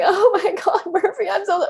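high, gushing owner fussing over her dog; mock doting owner. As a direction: ham up a clingy goodbye to the dog. Mock clingy owner goodbye.

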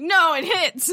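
playful, emphatic refusal; mock spite. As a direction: play the mean game master for a moment. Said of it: "been an asshole right there".

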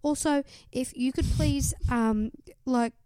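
lightly voiced Cass reading her diary; a mild mock of an earnest wish list; a hint of a sweet, hopeful diary voice; Cass impersonation. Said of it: "That was a pretty good impersonation".

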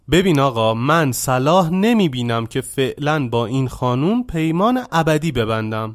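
loud, furious outburst at the master; angry shout. Acted. Young man shouting angrily at the master Shivana. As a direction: snap at him, fed up and yelling. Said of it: "با خشم فریاد زد".

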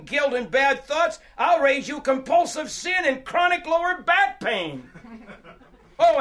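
loud, high, scoffing one-upmanship; heckler from the crowd. Acted. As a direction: call out from the back, topping their troubles. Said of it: "hear a voice from far back in the crowd".

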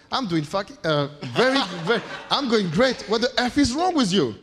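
laughing through a cocky brag; mock brash American. Imitating a successful American bragging, laughing mid-line. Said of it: "She's laughing already".

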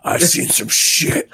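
lightly voiced little girl; a hint of a haunted child. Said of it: "I'm the little girl's voice now".

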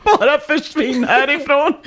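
high, hammed-up angry outburst; acted furious dismissal. Tearful girlfriend throwing out the narrator, acted outburst. Crying girlfriend orders him out.

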